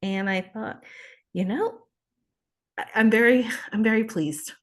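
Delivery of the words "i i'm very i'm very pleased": choked up with real pride; emotional, holding back tears; a little emotional. Real, not acted. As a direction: voice lifting with emotion, slightly louder. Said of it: "I'm getting a little emotional".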